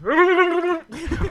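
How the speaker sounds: squeaky laugh imitation. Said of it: "It sounded something like this".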